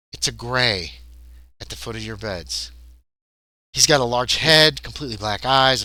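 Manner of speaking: measured game master narration; scene narration. A narrator's reading. Game master describing the abduction to players, measured narration. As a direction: set an eerie scene evenly.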